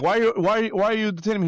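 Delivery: high, anxious woman asking why; pleading lady voice. Retold or imitated. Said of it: "and the lady was like".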